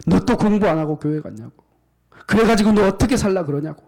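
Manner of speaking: aunt scolding her niece for skipping study, rising to a mock yell. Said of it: "호통을 치면서 또 화를 내는데".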